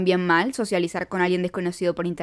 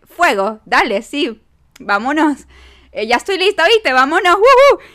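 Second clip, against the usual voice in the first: eager yes; 5 semitones higher, 9 dB louder than usual. Retold or imitated. Eagerly accepting the night outing.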